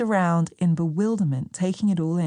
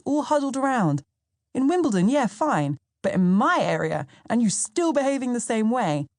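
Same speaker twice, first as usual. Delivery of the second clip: higher, quicker, insistent storytelling voice; voicing Sam, animated; 4 semitones higher than usual. Sam explains his shock at her friends, lightly voiced and insistent. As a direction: press the point with wide-eyed disbelief.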